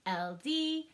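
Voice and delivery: C O U L D spelled out slowly, one letter at a time; slow letter spelling. Shown as a demonstration. Teacher spelling could aloud for the class. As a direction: tap each letter out slowly. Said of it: "arm tap it out".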